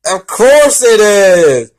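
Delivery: high, loud, slow mock exclamation; drawn-out sarcastic cheer. Real, not acted. Reader sighing at the same author, sarcastic cheer.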